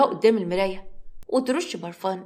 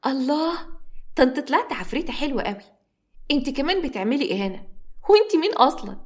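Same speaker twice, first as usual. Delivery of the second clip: smiling; 4 semitones higher than usual. Acted. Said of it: "سمرة بابتسامة".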